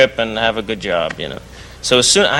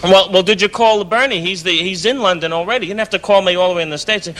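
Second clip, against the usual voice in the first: imitating friend; 5 semitones higher than usual. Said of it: "He goes".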